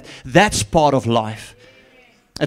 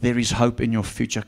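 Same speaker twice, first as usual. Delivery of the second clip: softer, lower reassurance; tender promise; 4 semitones lower, 4 dB quieter than usual. Retold or imitated. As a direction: promise hope gently. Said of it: "this is what the Lord said".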